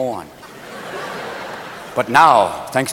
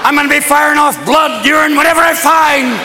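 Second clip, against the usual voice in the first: testicles protesting; 5 semitones higher than usual. Acted. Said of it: "your testicles are going".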